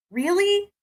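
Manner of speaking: high-pitched, questioning "really?"; retold incredulity. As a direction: ask it in high-pitched disbelief. Retells own incredulous reply to him.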